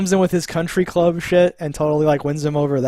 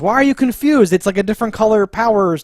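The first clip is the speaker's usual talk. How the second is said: mock audience shout; 6 semitones higher, 4 dB louder than usual. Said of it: "the audience screams these things".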